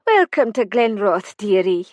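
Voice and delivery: cheery Highland Scots chef; Highland accent. Acted. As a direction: welcome her in a warm Highland accent. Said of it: "the accent pure Highlands".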